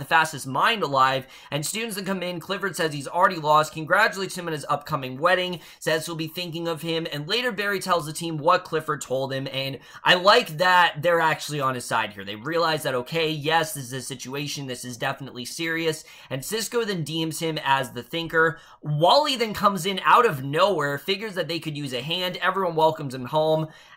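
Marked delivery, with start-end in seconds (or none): 0.0-1.2 strong stress on the word mind. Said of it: "not the fastest man alive".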